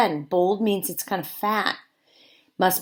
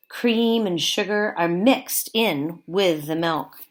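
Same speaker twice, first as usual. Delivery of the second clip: put-on reading to children. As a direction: read each sentence to the class with care. Teacher reads book to class.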